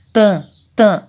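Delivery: TAN with the A through the nose, no hard N; nasalised A. Shown as a demonstration. Teacher showing the nasal sound, nasalised TAN. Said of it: "É um som que sai mais do nariz".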